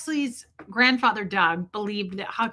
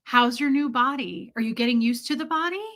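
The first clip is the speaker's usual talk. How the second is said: Brenda; 4 semitones higher than usual. Retold or imitated. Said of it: "this is how they would talk to a baby".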